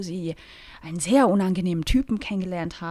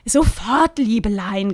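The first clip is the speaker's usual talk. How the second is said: lightly voiced Rosi; 4 dB louder, slower than usual.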